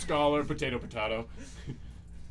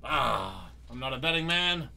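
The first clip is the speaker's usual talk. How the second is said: put-on old door reminiscing.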